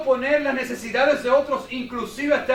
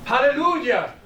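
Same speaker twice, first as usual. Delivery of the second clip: "¡Aleluya!" rises high and lands with a falling, exultant finish; joyful hallelujah; 4 semitones higher, slower than usual. Shown as a demonstration. Preacher showing the word that everyone understands, exultant "¡Aleluya!". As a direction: call out "¡Aleluya!" as a shout of praise. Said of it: "usted va a China, Japón, y usted dice".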